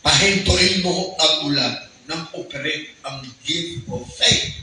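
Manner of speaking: a hint of a slow, solemn divine voice; voice of God. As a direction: lightly voice the Lord's command, unhurried. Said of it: "narinig ko ang boses".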